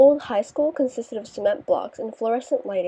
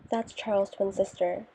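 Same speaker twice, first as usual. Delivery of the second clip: whisper; 6 dB quieter than usual. A narrator's reading. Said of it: "Jane whispered in my ear".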